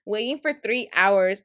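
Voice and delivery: imitating an impatient customer, pitched high at first; whiny retold complaint that drops toward the end; mock tantrum. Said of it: "going on her tantrum".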